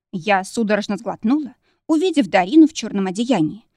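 usual speaking voice

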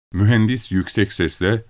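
ordinary delivery, nothing marked

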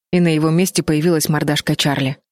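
usual speaking voice

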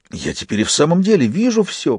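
high, chirpy jester voice; chirping bird person. A narrator's reading. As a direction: chirp it out happily. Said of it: "прощебетал радостно Фист".

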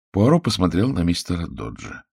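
ordinary delivery, nothing marked

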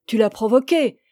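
accusation jalouse martelée avec plus de force; accusation jalouse insistante. Acted. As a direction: appuyer l'accusation sous la jalousie. Amant jaloux répète son accusation. (reproche jaloux qui monte)

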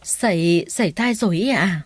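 stammering. Acted. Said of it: "lắp bắp hỏi".

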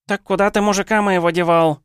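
shrill, loud, high howl; wailing yell. Acted. Ninka howls at the hero for her husband. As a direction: wail the demand at him. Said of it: "снова завопила Нинка".

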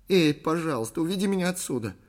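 high, plaintive plea; frightened pleading. A narrator's reading. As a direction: beg him to take you away. Frightened woman pleads to leave. (испуганная мольба высоким голосом)

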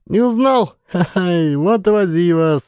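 high, laughing tease. A narrator's reading. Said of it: "захохотала девка".

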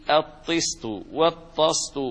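"الطست والطست" said first as tist, then as tast; two careful variants of "الطست والطست", vowel changing from i to a; kasra then fatha. Shown as a demonstration. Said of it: "بكسر الطاء وبفتحها".

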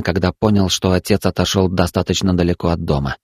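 ordinary delivery

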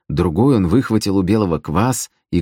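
ordinary delivery

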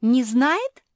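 high, loud incredulous question; shocked gasp. A narrator's reading. Жози learns Черчилль has no answer, gasping. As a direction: gasp it out in disbelief. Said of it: "ахнула Жози".

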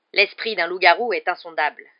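loud, hissing contempt; hissed retort. A narrator's reading. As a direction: hiss it to shut the argument down. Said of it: "répliqua Rogue dans un sifflement". (sifflement méprisant)

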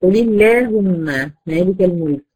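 قل اللهم recited slowly with a deliberate lam; slow recitation demo. Shown as a demonstration. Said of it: "شايفين اترققت إزاي؟".

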